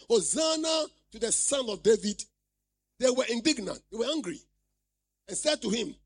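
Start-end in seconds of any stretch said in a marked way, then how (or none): 0.1-2.2 mild mock cry of the children. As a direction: call "Hosanna" out a bit louder. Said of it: "crying out".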